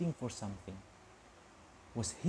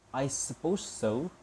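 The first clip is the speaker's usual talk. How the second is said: stiffly; slower than usual. Acted. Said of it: "said Missus Dursley stiffly".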